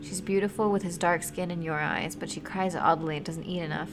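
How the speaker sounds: steady storyteller reading; story narration. A narrator's reading. Streamer reading a sad story to chat, calm narration. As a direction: read the tale to the stream. Reads game story aloud.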